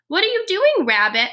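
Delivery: high, loud call across the meadow. Acted. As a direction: call out to a friend far off. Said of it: "Mouse called".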